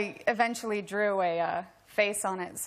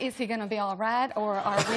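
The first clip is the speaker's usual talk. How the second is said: put-on Southern accent. Worried wife asking medical questions in a Southern accent. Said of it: "in a Southern accent".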